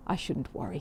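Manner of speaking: reassuring. Acted. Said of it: "did her best to sound cheerful".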